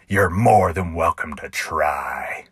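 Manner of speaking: mocking copy of the cowboy's slow dare; clown mimicking the cowboy. Clown echoing the cowboy's dare in mock imitation. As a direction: parrot the cowboy's line back at him. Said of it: "in a perfect imitation of the cowboy".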